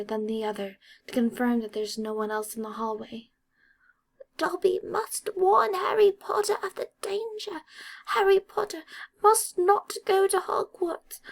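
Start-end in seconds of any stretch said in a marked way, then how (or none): 4.4-11.2 high, whispered elf voice; determined elf hush; urgent elf whisper. A narrator's reading.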